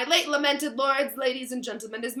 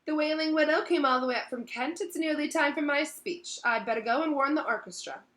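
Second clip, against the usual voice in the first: higher, louder bustling pride; pleased, raised voice settling at the end; proud host; 7 semitones higher, 5 dB louder than usual. A narrator's reading. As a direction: boast about your guests. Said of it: "said Nearly Headless Nick proudly".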